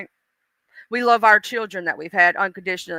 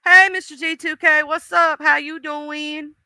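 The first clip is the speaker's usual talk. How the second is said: higher, drawn-out hello; greeting; 4 semitones higher than usual. Real, not acted. Host greeting a viewer who just joined, drawn-out greeting. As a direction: sing out a slow, friendly greeting.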